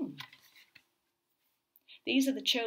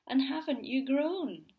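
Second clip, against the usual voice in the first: higher, fussy bird voice; fussy flock; 5 semitones higher, 4 dB louder, slower than usual. Acted. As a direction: cluck it like fussy gulls. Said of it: "who said".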